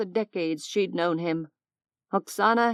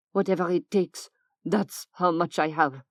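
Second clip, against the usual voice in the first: grimly; 2 semitones lower than usual. Acted. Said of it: "she said grimly".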